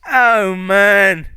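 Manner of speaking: high, loud delighted gasp; a fairy thrilled by a gadget; high, loud wide-eyed wonder; Puck amazed. Acted. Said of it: "And he's like".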